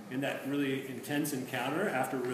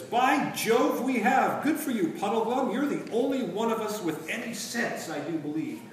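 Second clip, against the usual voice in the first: higher, louder schoolboy enthusiasm; hearty cheer; 7 semitones higher, 6 dB louder than usual. A narrator's reading. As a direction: clap him on the back with it. Scrub cheering Puddleglum.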